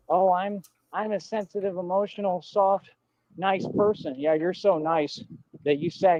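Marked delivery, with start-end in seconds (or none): 0.1-4.2 sarcastic mimicry of her innocent act; lightly mock her sweet, sensitive act; mocking imitation. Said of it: "Keep trying to talk like".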